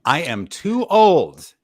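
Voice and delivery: high, loud, slow complaint; mock whine. Retelling Tiffany complaining she's too old to starve, mock whining. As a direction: whine it out, indignant.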